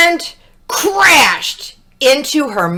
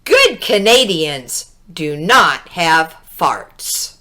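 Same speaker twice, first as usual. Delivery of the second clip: stern police; 6 semitones lower than usual. Acted. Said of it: "said the police".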